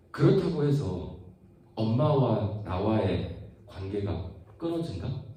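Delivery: ordinary talk, nothing marked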